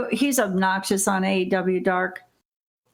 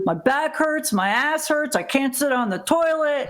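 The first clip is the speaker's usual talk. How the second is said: higher-pitched imitation of an aching complainer; mock complaining; 4 semitones higher than usual. Podcaster mimicking a sore wrestler after a match, mock complaining. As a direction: lightly imitate someone griping about aches.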